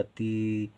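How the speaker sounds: ती with a long held ee; drawn-out vowel. Shown as a demonstration. Teacher sounding out the spelling for learners, drawn-out vowel. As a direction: hold the vowel in ती. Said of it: "ती देर तक बोला जा रहा".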